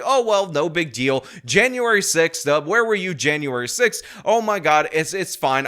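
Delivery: breezy sarcastic shrug of a voice; mocking dismissive quote. Mimicking opponents who shrug off violence, in a light mocking tone. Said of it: "They'll say".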